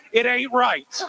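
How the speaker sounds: "ain't right" in a Kentucky drawl, said with force; Kentucky accent. Shown as a demonstration. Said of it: "in my Kentucky accent".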